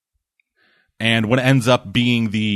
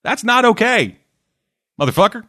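much higher-pitched indignant scolding; mock indignant retort; 9 semitones higher than usual. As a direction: act out an outraged telling-off. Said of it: "And Luke's like".

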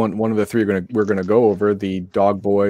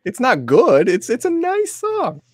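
sarcastic; slower than usual. Acted. Ironic praise of a song.

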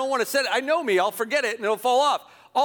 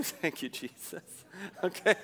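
relieved; 5 semitones lower, 9 dB quieter than usual. Retold or imitated. Relieved prayer under breath.

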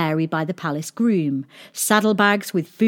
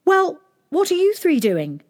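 princess voice; 11 semitones higher, 3 dB louder than usual. A narrator's reading. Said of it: "asked the princess".

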